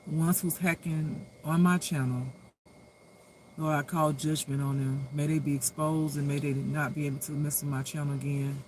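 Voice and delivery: low, earnest prayer voice. Real, not acted. Host praying against channel hackers, in an earnest low prayer. Prays over her channel.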